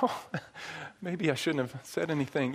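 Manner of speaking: small, soft imitated boy's voice; sheepish regret. Boy facing an oncoming dog, quietly regretful. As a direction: shrink back quietly with a mock nervous laugh.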